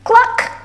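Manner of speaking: short, high imitated cluck; chicken cluck. A narrator's reading. Chicken in a children's story, high cluck. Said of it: "said the chicken".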